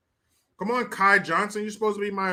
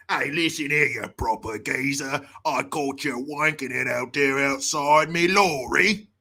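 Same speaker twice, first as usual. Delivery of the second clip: low-pitched British confrontation; mock British accent; 5 semitones lower than usual. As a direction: confront them in put-on British. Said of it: "I wanna say in this accent".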